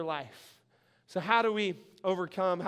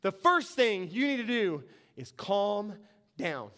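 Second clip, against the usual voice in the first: measured fatherly advice, lightly imitated; lightly voiced calming dad. Dad telling excitable Jason to calm down, lightly voiced calming father. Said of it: "Dad would come to me, he'd say".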